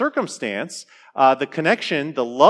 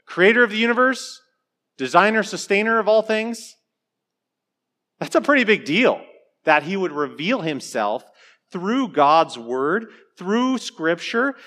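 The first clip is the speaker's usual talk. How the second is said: awed praise; 5 semitones higher than usual. Real, not acted. Preacher marvels at God.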